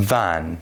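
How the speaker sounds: "ون" with a buzzing, voiced v at the start. Shown as a demonstration. Teacher has students feel the difference, voiced v in "ون". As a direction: say "ون" with the first sound voiced, as v.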